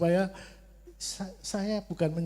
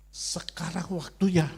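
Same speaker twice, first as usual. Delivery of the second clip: voice of God; 3 semitones higher, 4 dB louder than usual. Retold or imitated. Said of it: "Tuhan bicara lagi sama saya".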